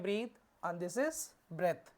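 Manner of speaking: slow teacher demo of "breathe" versus "breath"; pronouncing breathe and breath. Shown as a demonstration. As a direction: contrast "breathe" with a long ee and "breath" short. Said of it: "इसको पढ़ते हैं".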